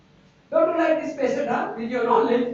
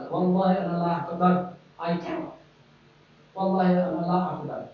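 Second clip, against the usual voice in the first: mock pleading patient; 4 semitones lower, much faster than usual. Patient refusing more pills.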